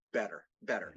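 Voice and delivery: low, deliberate "better, better"; careful enunciation. Shown as a demonstration. Guest showing his conscious effort, carefully enunciated "better, better". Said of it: "enunciate, pronunciate, all that stuff".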